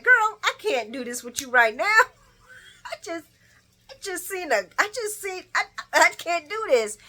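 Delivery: high, loud, stammering retold panic; hammed-up flustered protest with a laugh; mock freak-out. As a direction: play someone too rattled to finish. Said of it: "he's freaking out".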